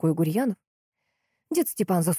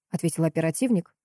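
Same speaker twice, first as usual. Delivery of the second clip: usual speaking voice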